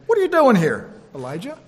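a lightly voiced God; booming God asking Elijah. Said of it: "said to him".

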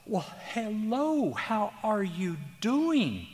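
put-on high, slow, sing-song old lady greeting; a cheery little old lady singing out her hello; sweet old lady voice. Therapist imitates a sweet old lady greeting him, high and slow. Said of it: "and she'd go".

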